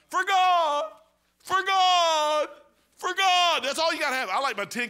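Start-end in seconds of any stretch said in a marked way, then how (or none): 0.1-3.6 high, loud, ringing repeated cry; preaching shout. Acted. Preacher shouting his three-word street message. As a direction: hammer it out from the pulpit. Preacher hammering the key phrase.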